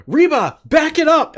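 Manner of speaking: high, loud mock yell of an order; imitated yell. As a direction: holler it like barking at a sidekick. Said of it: "and she yells".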